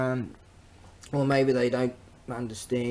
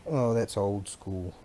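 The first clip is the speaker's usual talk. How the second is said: ordinary talk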